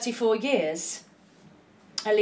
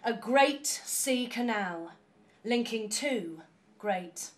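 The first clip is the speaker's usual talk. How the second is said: fading away; 9 dB quieter than usual. Acted. Closing the canal poem to the audience, softer and slowing down. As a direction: let the last lines sink to almost nothing.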